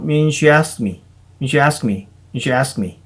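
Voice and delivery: "I" swallowed, "mean she asked me" run together; weakened I. Shown as a demonstration. Teacher showing students the mumbled filler start. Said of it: "I도 약해지고".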